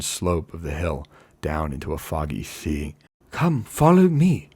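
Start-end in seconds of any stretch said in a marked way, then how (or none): 3.3-4.5 high, loud call to followers; calling back. A narrator's reading. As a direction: shout back over your shoulder. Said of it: "he called back over his shoulder".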